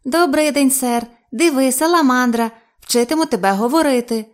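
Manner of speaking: high, loud parroting creature; балакуча саламандра. A narrator's reading. Саламандра повторює почуті фрази. (високий гучний голос саламандри)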